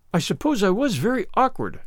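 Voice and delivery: mild, sheepish admission; apologetic. Acted. Anne excuses last night's praying, apologetic. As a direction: own up meekly, lightly voiced child. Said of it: "said Anne apologetically".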